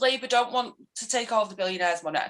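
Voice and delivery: measured, matter-of-fact correction; patiently setting the facts straight; retold factual reply. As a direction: answer the accusation evenly. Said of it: "trying to give him facts".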